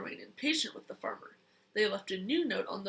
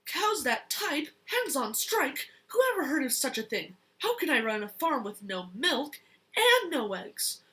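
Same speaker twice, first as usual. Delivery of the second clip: angry rant; 3 semitones higher, 4 dB louder than usual. Acted. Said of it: "Farmer Brown was furious".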